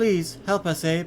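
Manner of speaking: put-on female voice. Asked to try a voice, says a line in put-on female voice. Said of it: "That is my like female voice".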